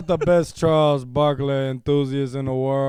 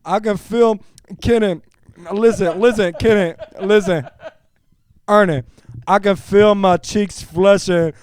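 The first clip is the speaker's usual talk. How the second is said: best voice. Pretend. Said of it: "I'm gonna read this in my best voice here".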